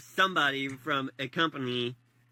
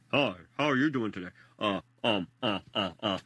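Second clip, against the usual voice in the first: stuttering caller; 7 semitones lower than usual. Retold or imitated. Voicing the silent caller.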